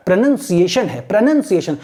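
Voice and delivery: "प्रोनाउंसिएशन" with second syllable "nun"; correct pronunciation. Shown as a demonstration. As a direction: say "प्रोनाउंसिएशन" as pro-nun-see-ay-shun, no "noun". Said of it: "आपको just imitate करना है". ("प्रोनाउंसिएशन" में "नाउं" की जगह "नन" बोलें)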